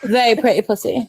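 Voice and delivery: lightly mimicked British accent. Sister imitating Jack on stream, amateur British accent. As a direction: put on a cheeky British accent. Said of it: "trying to imitate Jack".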